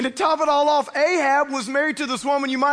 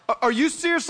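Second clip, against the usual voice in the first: attitude; 3 semitones higher, faster than usual. Retold or imitated. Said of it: "she gets this attitude".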